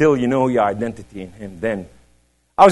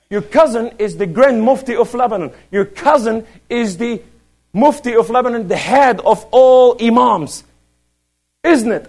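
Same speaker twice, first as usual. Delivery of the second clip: high, emphatic imitation, stretching the titles; excited stranger; 10 semitones higher, 5 dB louder than usual. Man in the market announcing a famous cousin, high and impressed. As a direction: proclaim the grand titles in a raised voice.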